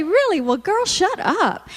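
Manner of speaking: mock surprise. Shown as a demonstration. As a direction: feign shock, then brush her off. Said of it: "we're gonna say".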